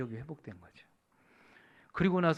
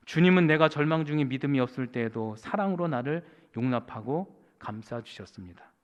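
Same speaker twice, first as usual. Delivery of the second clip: testimony read aloud; 7 dB louder than usual. Retold or imitated. Preacher reading the pastor's lifelong testimony, declamatory reading.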